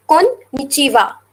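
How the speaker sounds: slow "Konnichiwa" split as kon, nichiwa; teacher showing the two joined parts of "Konnichiwa"; two-part demo. Shown as a demonstration. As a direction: set "Kon" apart from "nichiwa". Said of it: "Two different words are connected".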